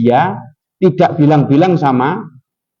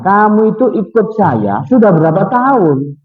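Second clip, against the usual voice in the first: angry boss; 6 semitones higher than usual. Retold or imitated. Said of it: "bosnya ini marah".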